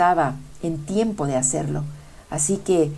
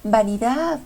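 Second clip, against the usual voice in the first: higher, rising hail to a passing boat; calling out; 7 semitones higher, slower than usual. Acted. Love signals to vanity's boat, mild high call. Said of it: "Le hizo señales gritando".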